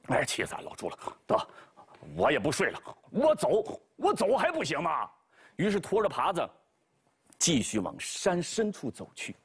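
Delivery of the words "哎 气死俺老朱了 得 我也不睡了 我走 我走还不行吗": huffy pig voice, flaring up on 我走; storming off in a childish huff; sulky Bajie. Acted. Bajie gives up and stomps off, huffy.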